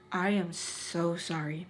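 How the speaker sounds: slow, gentle, weighted words; retold heartfelt regret; sincere apology.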